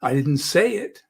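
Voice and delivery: "say" stressed, hinting it was only implied. Shown as a demonstration. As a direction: put the weight on "say". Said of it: "I may have implied it".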